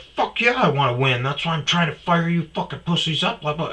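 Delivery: high-pitched, fired-up imitation; drunk friend shit-talking. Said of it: "he's shit-talking all of us".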